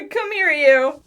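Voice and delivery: laughing through tears. Acted. Tearful hug.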